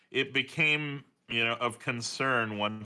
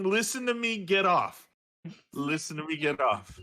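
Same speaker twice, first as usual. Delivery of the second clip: put-on lightly raised, bossy little girl voice; imitating daughter; 5 semitones higher than usual. Father quoting daughter's cartoon line, lightly high and bossy. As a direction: boss him around like a toddler. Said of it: "She's telling".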